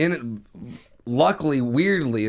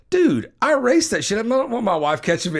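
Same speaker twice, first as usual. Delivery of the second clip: imitating panicked friend; 8 semitones higher, 4 dB louder than usual. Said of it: "He goes".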